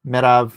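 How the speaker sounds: "Merav" ending in a v sound; "Merav" with open second vowel and final v; Hebrew pronunciation of Merab. Shown as a demonstration. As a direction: say "Merav" as meh-RAHV. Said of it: "Like that?".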